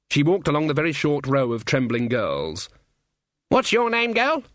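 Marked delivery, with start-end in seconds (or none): 3.5-4.4 put-on imperious old witch voice. Granny voiced.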